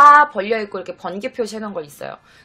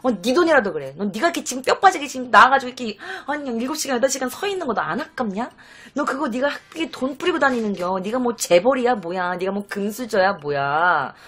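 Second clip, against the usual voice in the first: nagging scold. Retold or imitated. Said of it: "막 이러면서 내가 엄청 잔소리를 했었거든요".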